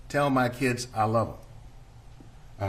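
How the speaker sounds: very slow, tender reading of a dying man's words; slow, hushed quote. Retold or imitated. Prosecutor quoting dying man's words.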